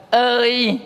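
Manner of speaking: "Ơi" held long, high and level; level-tone demo. Shown as a demonstration. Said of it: "bắt đầu là ngang". (ngân "Ơi" cao và ngang)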